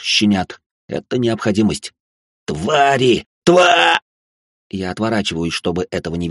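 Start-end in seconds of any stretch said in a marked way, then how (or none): 2.4-4.0 dying scream. Acted. Poacher screams before death.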